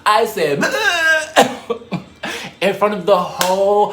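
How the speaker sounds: high, loud fit of laughter; laughing hard. Real, not acted. Teller cracking up before the vomit reveal. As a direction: laugh through the words, can barely speak.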